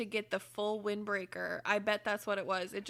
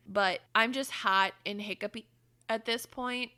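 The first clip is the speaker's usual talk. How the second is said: ordinary talk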